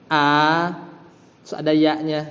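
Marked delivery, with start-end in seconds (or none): 0.1-0.7 "A" held as a long vowel; wrong long reading. Shown as a demonstration. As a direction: stretch "A" out on a level note.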